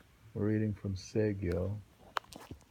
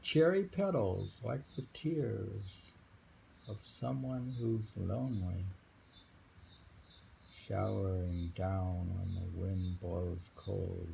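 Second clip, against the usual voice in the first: slow, raised recital voice; slow poem reading; slower than usual. Acted. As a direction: draw out the image of falling petals. Reads a poem.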